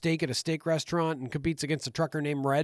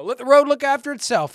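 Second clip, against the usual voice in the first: quoting the mechanic; 9 semitones higher, 7 dB louder than usual. Retold or imitated. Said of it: "he says".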